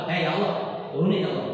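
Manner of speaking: quick, insistent demand to God; demonstrating a rudely insistent prayer; pushy prayer. Shown as a demonstration. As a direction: demand it in a hurry, mock-pushy. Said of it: "Jangan ngotot, doa ngotot".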